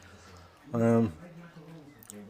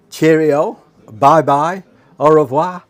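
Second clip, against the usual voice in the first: louder, higher singsong farewells; cheery goodbye; 5 semitones higher, 9 dB louder, slower than usual. Real, not acted. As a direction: wave them off brightly. Cheerful sign-off to viewers.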